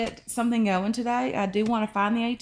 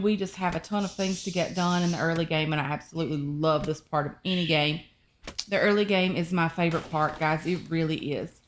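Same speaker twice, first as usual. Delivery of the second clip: sore mouth after tooth extraction; 3 semitones lower than usual. Real, not acted. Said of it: "if I'm talking a bit weird".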